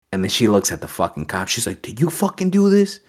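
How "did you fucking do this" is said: retold angry principal. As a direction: confront the cop as the outraged principal. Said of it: "this principal got mad as fuck".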